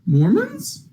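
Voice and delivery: high, incredulous question; baffled clerk. Acted. Clerk eyes the two wives, high and incredulous. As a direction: squeak it out in disbelief. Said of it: "and he goes".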